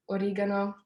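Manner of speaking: oregano said with an Italian accent; Italian-accented oregano, rolled lightly. Real, not acted. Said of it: "sorry about the Italian accent".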